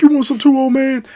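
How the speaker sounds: loud, high shouted challenge; acted-out movie bully; bullying threat. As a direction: yell a threat at an older man. Debo threatens dad in Friday scene.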